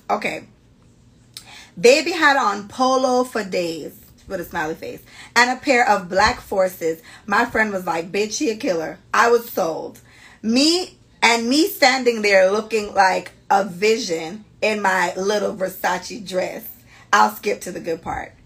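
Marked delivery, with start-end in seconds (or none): 1.8-3.9 drawn-out, admiring narration; slow, savoring story reading. Acted. Host reading friend's outfit description, savoring it. 5.4-16.6 slow, deliberate storytelling; story reading. Acted. Host reading friend's party story, savoring it.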